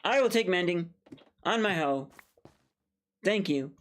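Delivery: playful over-the-top gratitude; mock eager acceptance. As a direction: pretend to snatch up the deal with glee. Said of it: "I'll be like".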